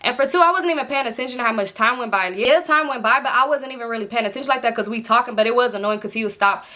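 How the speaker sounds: ordinary delivery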